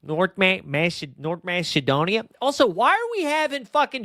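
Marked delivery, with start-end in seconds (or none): 0.0-2.2 put-on Canadian accent sliding into Chicago; mock Canadian-Chicago accent; botched Canadian accent. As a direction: attempt Wayne Gretzky's Canadian accent, landing nearer Chicago. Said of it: "more of a Chicago accent than a Canadian one".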